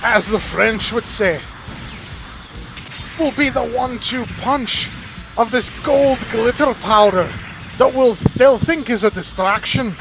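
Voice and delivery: a hint of a Scottish engineer proudly pitching his mobile armor. Engineer describing his new mobile armor in a light Scottish accent. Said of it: "I made the engineer sound Scottish".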